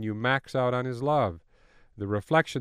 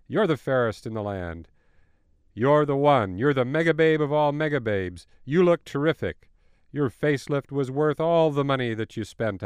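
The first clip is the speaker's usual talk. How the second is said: louder, booming magic mirror; shimmering echoing mirror voice; 3 dB louder than usual. Acted. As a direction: proclaim it like an enchanted mirror. Magic mirror flatters the queen.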